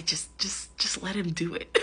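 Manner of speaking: softly voiced petty urge; petty urging. Petty part of speaker secretly urging it on, quiet and mildly mischievous. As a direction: egg them on quietly, just a touch petty. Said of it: "that wanted to be petty".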